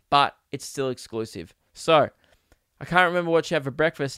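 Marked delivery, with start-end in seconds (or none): 2.8-4.2 quick rereading. Retold or imitated. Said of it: "Nick said".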